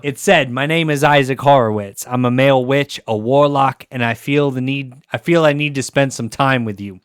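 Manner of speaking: put-on lyrics read in a loose Jersey accent. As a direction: keep the Jersey read going. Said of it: "Can you do it in a Jersey accent".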